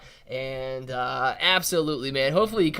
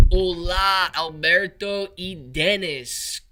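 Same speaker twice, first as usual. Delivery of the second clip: slow Spanish greeting; 4 dB louder, much slower than usual. Shown as a demonstration. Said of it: "say hello to my Spanish-speaking coworkers".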